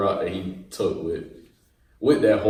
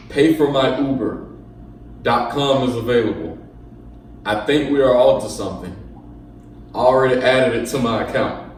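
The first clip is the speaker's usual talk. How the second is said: dramatic reading. Pretend. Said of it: "let me do my dramatic reading of this".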